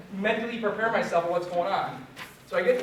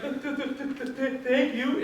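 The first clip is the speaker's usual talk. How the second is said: higher stuttered thank-you, still half sobbing; shaky mock thanks; 6 semitones higher than usual. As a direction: stutter out the thanks, a little broken. Shaken patient thanks doctor afterwards.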